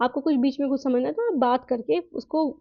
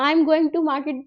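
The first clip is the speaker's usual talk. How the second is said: "going to" spoken slowly and fully; slow, careful full form; much slower than usual. Shown as a demonstration. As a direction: spell out "I am going to market" carefully. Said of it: "है ना, तो".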